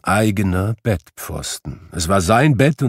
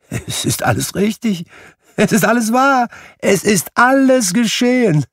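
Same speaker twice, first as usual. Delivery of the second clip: higher and louder, building to near shrieking joy; excited crying out; 4 semitones higher, 3 dB louder than usual. Acted. Scrooge hops about the room crying out in joy. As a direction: hop round the room shouting with glee. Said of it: "rief Scrooge, indem er um den Kamin herumhüpfte".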